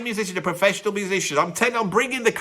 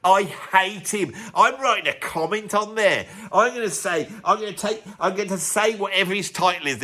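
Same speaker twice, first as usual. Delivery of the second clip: mock indignant fan, drawing out the grievance; lightly acted huffy online commenter; angry fan. Angry fan typing a comment against Andy, mildly mock-indignant. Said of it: "every fan of them is now angry".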